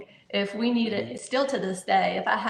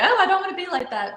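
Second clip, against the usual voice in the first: higher, fast whiny quote; mock whiny teen; 10 semitones higher, 5 dB louder, faster than usual. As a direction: brush it off like a teenager.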